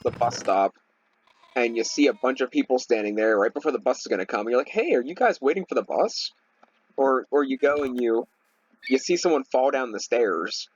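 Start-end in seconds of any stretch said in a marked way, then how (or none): 4.7-6.3 higher, chirpy mock-innocent asking; mock dumb question. Mocking people who ask at the bus stop, chirpy and higher. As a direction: play the clueless asker, pitched up.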